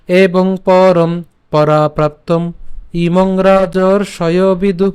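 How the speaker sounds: measured, emphatic shloka reading; verse read slowly with force on পরম; slow recitation again. Shown as a demonstration. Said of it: "আমি আবার বলছি".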